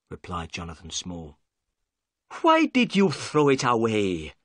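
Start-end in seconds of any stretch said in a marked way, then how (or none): 2.4-4.3 angry. Acted. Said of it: "cried Inspector Jones angrily".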